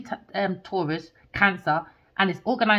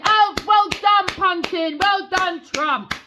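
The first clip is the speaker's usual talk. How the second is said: high, slow mock congratulations; dripping sarcasm; sarcastic praise; 8 semitones higher, slower than usual. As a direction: clap them sarcastically.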